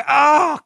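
high groan of embarrassment; pained groan. Real, not acted. Host bragging about own education, pained groan. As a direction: groan as if it hurts to say. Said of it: "that's painful to say".

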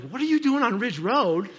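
high, loud retold outburst; exasperated driver. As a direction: call out in mock exasperation at traffic. Exasperated at wide-load trailer.

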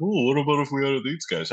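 high, quick mocking voice; mock eagerness. Mocks rival team's eager scheming.

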